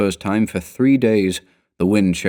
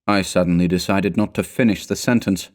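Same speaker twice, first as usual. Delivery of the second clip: ordinary delivery, nothing marked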